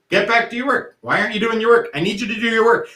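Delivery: nagging teacher. Retold or imitated. Teacher nagging a student who walks away from work, insistent. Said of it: "we keep saying to them".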